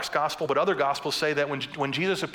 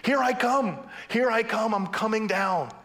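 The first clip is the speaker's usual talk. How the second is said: high, raised preacher's voice as God; God answering; 6 semitones higher, slower than usual. Retold or imitated. God answers the people's plea, calling out emphatically. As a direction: call out God's emphatic reply. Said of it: "And God's saying".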